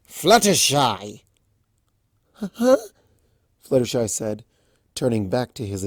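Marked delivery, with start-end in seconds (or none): 0.1-1.2 long, slow drawn-out call. Acted. Discord calling Fluttershy back, drawn out. 2.3-2.8 high, sudden startled huh. Acted. Fluttershy startled by Discord's call, high.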